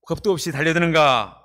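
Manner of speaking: lightly voiced mocking enemy; mocking Sanballat. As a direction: play the scornful enemy, a touch of contempt. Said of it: "이렇게 말했습니다".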